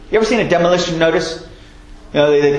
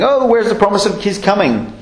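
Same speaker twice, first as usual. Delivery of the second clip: scoffer; 4 semitones higher than usual. Retold or imitated. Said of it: "lots and lots of scoffers".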